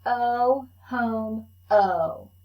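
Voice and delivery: each sound said slow and clear for the class to copy; teacher modelling A for repeat; vowel demo. Shown as a demonstration. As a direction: model the long vowel for echo. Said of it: "I'll say it, then you say it".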